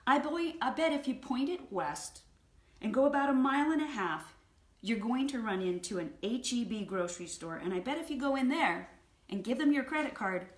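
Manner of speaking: loud, emphatic dig; pointed comeback. Retold or imitated. Wife telling husband where lunch meat is sold, pointedly. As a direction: lay out the obvious with relish.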